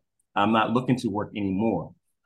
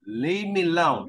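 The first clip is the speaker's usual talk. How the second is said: Ebonics; 6 semitones higher than usual. Retold or imitated. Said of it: "For y'all who don't understand Ebonics".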